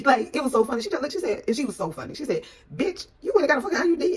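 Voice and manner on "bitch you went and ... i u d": high, loud, fast disbelief; incredulous friend. Retold or imitated. Friend scolding her over birth control, high incredulous outburst. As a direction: imitate a friend's outraged comic shriek of a question.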